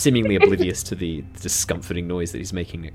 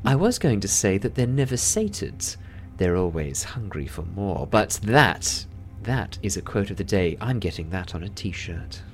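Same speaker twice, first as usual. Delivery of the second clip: delighted laughter; 2 semitones higher than usual. Acted. Susurrus praises Lyra's joke, laughing. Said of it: "the professional quiet mask ... shatters".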